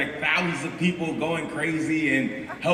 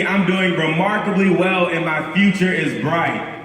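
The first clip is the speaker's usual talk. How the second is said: call and response; 5 dB louder than usual. Shown as a demonstration. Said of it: "I want everybody to repeat after me".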